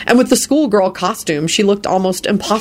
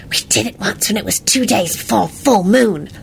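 smug confiding, slightly raised pitch; smug whisper, mock-private; 4 semitones higher than usual. A narrator's reading. Rita boasting to Victor within Lupin's hearing, smugly. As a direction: confide it with self-satisfaction. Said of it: "in a smug voice to Victor".

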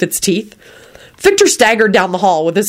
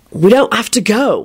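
mildly patient, slightly raised voice; patient reply; 4 semitones higher than usual. A narrator's reading. William reassuring Rosie that they can stay, patiently. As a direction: answer with a touch of patience. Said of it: "William would reply patiently".

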